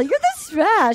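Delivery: "special" squashed into a gushy "spesh"; exaggerated "special". Host mocking a couple's mutual compliments, gushy over-pronounced "special". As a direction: lean hard on the "spesh" of special. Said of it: "She just put the presh in special".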